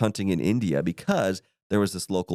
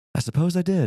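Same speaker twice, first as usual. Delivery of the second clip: put-on offhand, nonchalant delivery, slightly pitched up; 9 semitones higher than usual. Retelling a film scene where a father admits a killing: imitating a nonchalant delivery. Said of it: "Very nonchalant".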